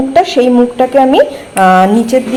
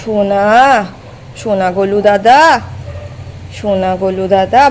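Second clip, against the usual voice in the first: tender; 4 semitones lower, 3 dB quieter than usual. Real, not acted. Tenderly coaxing, lowered voice.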